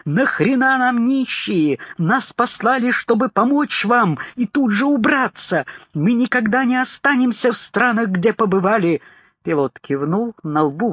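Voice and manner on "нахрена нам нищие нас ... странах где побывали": panicked squeal, several notes up; voice cracking into a shriek. Acted. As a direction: lose control and squeal it out. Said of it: "голос неожиданно сорвался на визг".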